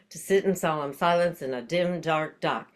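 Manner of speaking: tongue twister said while running out of air; out of breath. Shown as a demonstration. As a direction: squeeze the words out with no breath left. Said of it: "I'm already out of breath".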